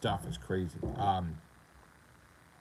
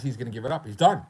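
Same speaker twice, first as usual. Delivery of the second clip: mock taunt; 6 dB louder, faster than usual. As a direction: jeer like a gloating troll. Mocking taunt, repeated.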